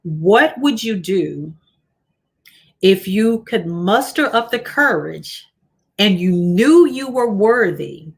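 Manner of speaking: measured, deliberate dictation of a question; slow reading. Real, not acted. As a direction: read it slowly with pauses between phrases. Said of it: "I'm gonna read them slowly".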